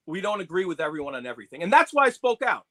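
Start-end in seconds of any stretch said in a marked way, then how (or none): 0.1-1.6 mocking quote. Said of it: "it got to be mockage".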